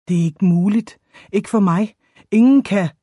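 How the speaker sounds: a touch of breaking on the last words; lightly acted cracking voice; voice cracking, understated. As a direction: plead with mild anguish. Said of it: "Hans stemme knækkede".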